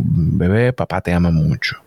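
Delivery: lightly voiced father cooing to the belly; tender baby talk. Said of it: "Yo le hablaba desde ese momento".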